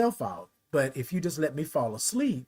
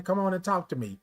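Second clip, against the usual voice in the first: nurse's voice; 4 semitones higher, faster than usual. Retold or imitated. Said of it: "like that".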